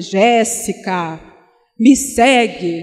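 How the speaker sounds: booming, thunderous, echoing voice. Describing an imagined scene with angels and light, a voice calling Jéssica like thunder. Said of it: "com voz de trovão dizendo".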